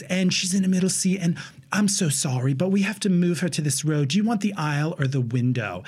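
lightly imitated New Zealand accent. Flight attendant asking passenger to pick a seat, New Zealand accent. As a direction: explain apologetically with a hint of New Zealand accent. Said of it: "The New Zealand flight attendant comes over".

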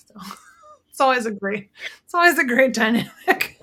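laughing sarcasm. Real, not acted.

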